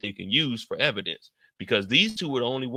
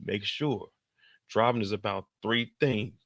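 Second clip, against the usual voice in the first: imitating Tommy. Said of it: "He talking about".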